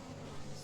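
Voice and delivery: a long tired yawn. Real, not acted. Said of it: "Sorry, I'm yawning".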